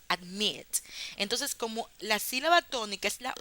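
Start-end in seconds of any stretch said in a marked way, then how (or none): 0.1-0.7 "admit" with "mit" as the strong syllable; stress on last syllable. Shown as a demonstration. Teacher repeating the example admit, final syllable stressed. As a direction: put the weight on the end of "admit". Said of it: "la que sube, eh, la, la entonación".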